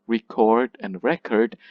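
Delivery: "record" stressed on the second syllable, then on the first; two stress patterns. Shown as a demonstration. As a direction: contrast re-CORD with REC-ord. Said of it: "cannot change the stress patterns".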